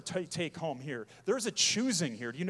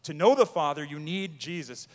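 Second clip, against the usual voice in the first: emphatic; 8 dB louder than usual. Acted. Preaching emphasis.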